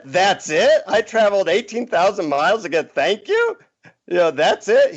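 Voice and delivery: high, incredulous rising questions; how dare that be all; shocked traveller pitched well up; indignant disbelief. Retold or imitated. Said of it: "I said".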